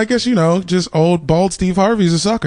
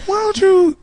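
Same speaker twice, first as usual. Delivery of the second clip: high mom voice. Retold or imitated. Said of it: "she's like".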